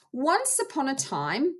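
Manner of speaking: storytelling voice. Shown as a demonstration. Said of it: "I might talk about".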